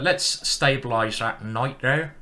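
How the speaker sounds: slow put-on Somerset accent; playful Somerset burr. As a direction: draw it out in mock Somerset. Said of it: "speaking like a Somersetian".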